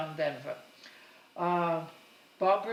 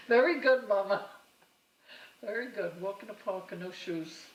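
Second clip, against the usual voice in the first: teasing reply; 3 semitones higher, 4 dB louder than usual. Retold or imitated. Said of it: "and she says".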